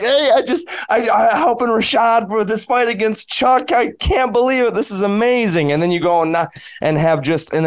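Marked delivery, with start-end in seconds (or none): 0.0-5.7 bright, high, giddy rush of words; excited call home. Retold or imitated. Telling the fighter how he called his parents, excited and high. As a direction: gush like a kid who can't believe it. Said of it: "calling my parents like".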